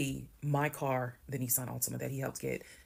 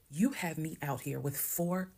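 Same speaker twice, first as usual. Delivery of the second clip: held-back fury. Retold or imitated. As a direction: keep the scream in, spit each word slowly. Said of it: "I'm trying not to scream because the neighbors".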